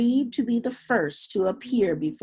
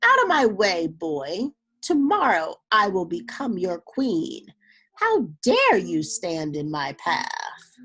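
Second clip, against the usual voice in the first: louder, imperious rebuke; haughty scolding; 3 dB louder than usual. Acted. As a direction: push the child aside with contempt. Manyara scolds the boy.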